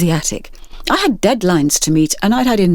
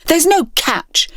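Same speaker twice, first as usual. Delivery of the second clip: slow, high, too firm; forceful snap; 11 semitones higher, slower than usual. Acted. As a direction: bite the words off. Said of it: "Rani snapped, a little too forcefully".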